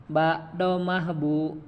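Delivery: slow, clear "Ba domah bu"; teacher modelling "Ba domah bu"; slow spelling drill. Shown as a demonstration. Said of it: "Saya dulu, Pak, ya".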